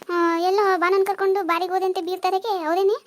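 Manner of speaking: loud accusing demand; angry accusation. Acted. Mother-in-law confronting daughter-in-law about the bar, loud and angry.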